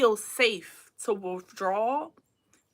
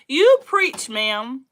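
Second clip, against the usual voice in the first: excited cheer; 2 semitones higher, 9 dB louder, much slower than usual. Real, not acted. Cheering on a quote.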